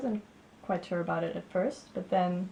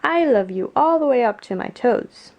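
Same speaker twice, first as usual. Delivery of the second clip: eager little hare, higher and loud; 5 semitones higher, 14 dB louder than usual. A narrator's reading. Upside-down little hare tells Big hare, eagerly. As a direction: proudly declare it as the little character. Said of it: "he said".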